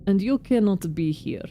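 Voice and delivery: lightly voiced Russian foreman, guarded; a touch of a stern Russian accent. Foreman Oyun guarding his kin matter, light Russian accent. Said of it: "my Russian accent".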